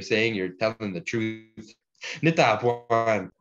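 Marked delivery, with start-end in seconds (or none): 2.2-3.3 slow, louder Nitapuan; drawn-out emphatic Nitapuan; model pronunciation. Shown as a demonstration. Teacher giving the Cree word as fluent speakers say it, slow and emphatic. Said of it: "fluent speakers say".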